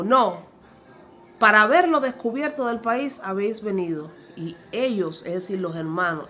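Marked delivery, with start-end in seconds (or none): 0.0-4.1 stern accusation. Acted. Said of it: "José les dijo".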